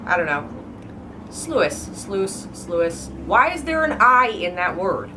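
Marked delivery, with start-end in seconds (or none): 1.3-1.9 Sluice as SLOO-iss; misreading. Shown as a demonstration. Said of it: "in my head". 1.9-2.5 sluice as SLOOS; one syllable in sluice; correct pronunciation. Shown as a demonstration. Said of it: "that's how you actually pronounce". 2.5-3.1 sluice as SLOO-iss; two syllables in sluice; misreading. Shown as a demonstration. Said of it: "in my head".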